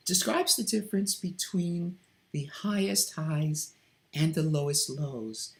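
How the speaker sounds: "highest highs" lifted up, "lowest lows" dropped down; wide dynamic range. Shown as a demonstration. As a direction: let the pitch climb on "highest highs" and sink on "lowest lows". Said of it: "just as I was trying to do".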